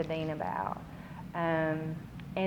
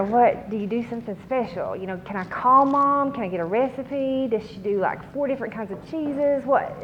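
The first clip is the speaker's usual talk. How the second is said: quick, higher, louder rush of questions; eager questions; 5 semitones higher, 4 dB louder than usual. Retold or imitated. Asking the crying student about the recipe, higher and eager. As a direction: pepper her with hopeful questions. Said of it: "So I'm asking her".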